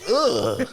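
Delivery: a sharp high ugh of disgust; loud fed-up ugh; disgusted groan. Retold or imitated. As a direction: groan like you can't believe it. Groaning at Toguro's taunt.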